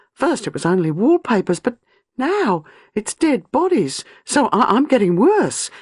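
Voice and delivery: high, pressed voice near hysteria; young wife confessing her fear of madness, high and desperate; despairing young woman. A narrator's reading. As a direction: sound like she fears she is mad.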